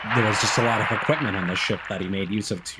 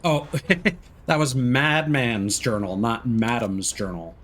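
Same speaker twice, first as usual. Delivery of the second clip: amused realization; slower than usual. Real, not acted. Realizes misreading.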